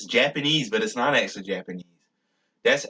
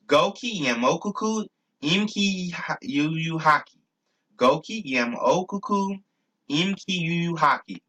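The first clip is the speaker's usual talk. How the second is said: high, chant-like reciting of made-up words; deliberate recitation; 5 semitones higher than usual. Shown as a demonstration. Speaker drills his phrase for viewers to remember, high and deliberate. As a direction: recite it evenly on a raised pitch.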